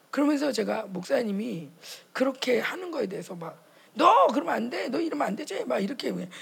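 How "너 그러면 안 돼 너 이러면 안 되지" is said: high, loud scolding, half laughing; playful reprimand of the pastor; mock scolding. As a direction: wag a finger at your husband.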